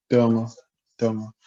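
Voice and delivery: domo, domo, repeated clearly; tonal word demo. Shown as a demonstration. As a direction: say domo with careful tones. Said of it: "the interesting word of this video".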